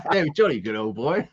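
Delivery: put-on playful posh British accent. Guest joining the host's joke in a posh British accent. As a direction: toss back a jolly good in mock English.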